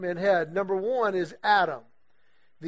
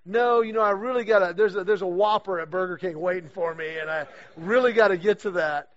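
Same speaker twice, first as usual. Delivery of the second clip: louder, hammed-up protest of being too busy; mock inner excuse; 5 dB louder than usual. Joking about brushing off a golf legend for a burger, mock excuse. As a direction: playfully beg off as if fast food mattered more. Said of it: "but I'm thinking".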